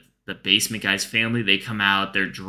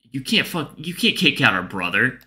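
indignant protest; 5 semitones higher than usual. Retold or imitated. Neighbors confronting evictors in retold story.

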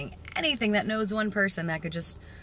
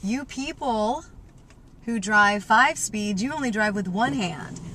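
slow emphatic address; 2 semitones higher, slower than usual. Real, not acted. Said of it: "I do have to say this".

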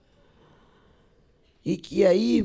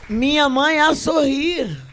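high, loud, drawn-out poem line; big projected recital; loud declamation; 9 semitones higher, 6 dB louder, slower than usual. Shown as a demonstration. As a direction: proclaim the verse at full voice. Contrasting loud delivery of the poem.

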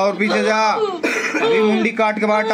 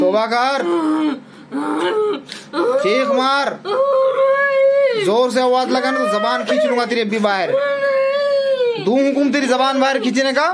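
angry threat; 3 semitones higher than usual. Real, not acted. Exorcist threatening jinn.

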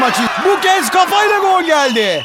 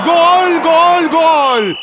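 screaming football commentator; much slower than usual. Acted. Goal called in commentary.

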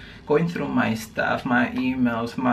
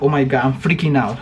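retold panic; faster than usual. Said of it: "I was like".

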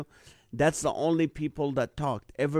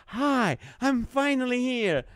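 mock cheery greeting; 8 semitones higher, slower than usual. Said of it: "I was like".

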